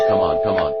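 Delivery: shouting come on at full volume; loud desperate yell. Acted.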